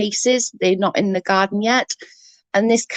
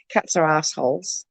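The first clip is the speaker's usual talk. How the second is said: teasing provocation; 3 semitones lower, 4 dB quieter than usual. Pretend. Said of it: "I like to say it 'cause it annoys Patty".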